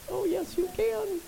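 teasing sing-song. Pretend. Preacher to church about justifying anger, slow teasing sing-song. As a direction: sing it like you caught them out. Teasing answer to own question.

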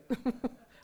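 bright, high burst of laughter; short amused laugh; real laugh. Real, not acted. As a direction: laugh at your own joke. Laughs at own story.

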